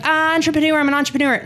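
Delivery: high-pitched mocking influencer voice; mock Fitspo girl. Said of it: "Fitspo girls who are like".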